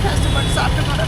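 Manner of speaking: real crying while talking; tearful. Real, not acted. Woman telling the giver of her hardship, tearful. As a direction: speak through your tears. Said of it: "அதிகம் அழுகுறீங்க".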